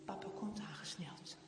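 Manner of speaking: hushed storyteller whisper; whispered narration. Acted. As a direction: breathe the words, no voice.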